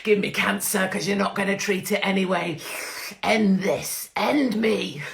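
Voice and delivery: loud, hammed-up begging to be ended; mock dramatic plea. Mocking herself, begging the health service in a loud, hammed-up wail. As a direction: overplay a despairing plea for death.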